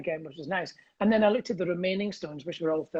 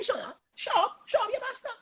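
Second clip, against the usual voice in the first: voicing pigeons.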